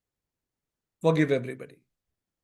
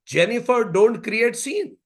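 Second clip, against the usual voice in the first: mock shout from an exasperated mother; retold mild shout; 4 semitones higher than usual. Mother in supermarket as baby cries, mild mock shout. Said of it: "Mother again shouted".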